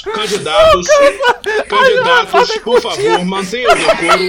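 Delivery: high, loud call to order; shouting for order. Real, not acted. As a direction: yell over the noise to restore order. Mediator calling debaters to order.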